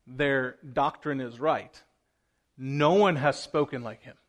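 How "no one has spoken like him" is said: louder, eager retelling of amazement; awed officers. Retold or imitated. Officers telling the chief priests how Jesus spoke, loud and amazed. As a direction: burst out like you can't believe what you heard. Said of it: "And they said".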